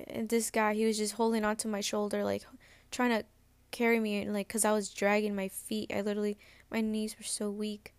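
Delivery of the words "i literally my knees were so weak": a burp slipping out mid-sentence. Real, not acted. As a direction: let a small burp break the words. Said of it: "I'm so sorry I burped".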